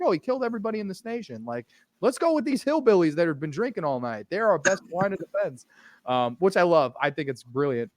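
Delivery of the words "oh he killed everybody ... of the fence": quick, high, mock-casual townsfolk; mocking quote. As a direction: breeze through it like it's no big deal. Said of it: "they're just like".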